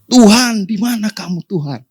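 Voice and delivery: mock desperate cry, Tuhan; retold cry to God. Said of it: "lalu dia teriak".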